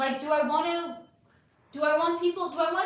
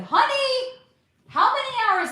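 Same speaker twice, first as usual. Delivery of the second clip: high exclamation; 13 semitones higher, 10 dB louder than usual. Real, not acted. Exclaiming at long stream hours.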